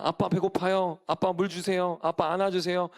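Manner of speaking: a hint of a little kid asking dad; lightly voiced child. Child asking dad for food and a hug, lightly voiced. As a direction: lightly imitate a small child's requests. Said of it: "아이가".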